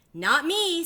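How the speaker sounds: high, loud duckling no; first duckling refusing to jump; squeaky refusal. Acted. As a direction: pipe up and refuse.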